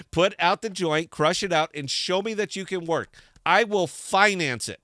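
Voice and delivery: a fired-up harangue at imagined founders; mock scolding rant. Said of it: "I'm fired up".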